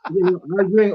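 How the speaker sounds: chuckling through the words; amused, laughing as you repeat it; real laugh in the voice. Real, not acted.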